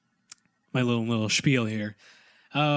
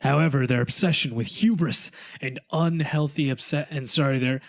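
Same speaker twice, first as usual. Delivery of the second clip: storytime voice. Acted. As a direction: read like a bedtime tale. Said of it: "Are you ready for Zach's story time voice once again?".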